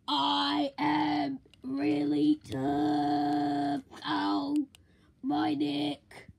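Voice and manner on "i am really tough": very slow robot voice. Acted. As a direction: drag out each word mechanically. Robot answers.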